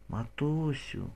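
weak, soft whisper; girl whispering to her mother; faint whisper. A narrator's reading. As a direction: barely breathe the word. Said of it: "дівча шепоче".

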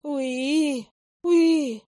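scared mandrake squeaking; frightened squeak. Acted. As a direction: panicky little-creature squeals. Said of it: "перепуганно запищал Мандрагора".

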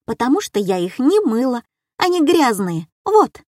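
детское упрямое оправдание, вот вверх; объяснить по-детски и упереться; упрямая девочка. Retold or imitated. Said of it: "заявила ещё одна девчушка". (девочка оправдывается перед мамой)

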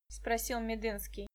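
usual speaking voice

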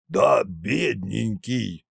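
slow, sarcastic pity; mock sympathy. A narrator's reading. Koshchei mocks the whining fat man, slow mock pity. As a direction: coo false pity slowly. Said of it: "посочувствовал Кощей".

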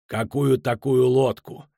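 slow, unhurried query; understated, deliberate calm; calm question. A narrator's reading. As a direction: ask it composedly, taking your time. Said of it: "спокойно спросил Адарио Бах".

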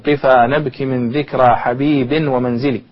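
slow measured poetry recitation, drawing out the metre; reciting classical verse. Shown as a demonstration. Teacher reciting a verse to show its prosodic spelling, slow and measured. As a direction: chant the line slowly, weighing each beat. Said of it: "عندما تكتب البيت مثلًا".

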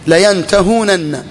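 layantahūnanna drawn out syllable by syllable; full underlying form. Shown as a demonstration. Teacher gives students the verb's origin, full form sounded slowly. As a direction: stretch the long ū and sound both nuns, very slowly. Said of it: "ما هو أصل الفعل؟".

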